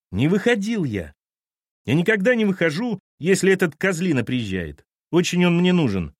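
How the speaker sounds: put-on high, loud angry teenager; shouting boy. Boy to captain, yelling about mum's boss. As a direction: yell it at the man. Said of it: "Тим, почему ты орёшь?".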